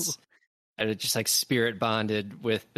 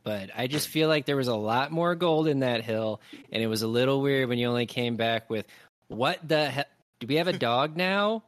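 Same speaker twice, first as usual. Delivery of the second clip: grumpy Adderthorn; 3 dB louder than usual. Acted. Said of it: "they're gonna hear Adderthorn saying".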